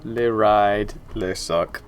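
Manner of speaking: hammed-up bad French accent, slow at the end; mock French, deliberately clumsy French accent. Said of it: "that was just bad French accent".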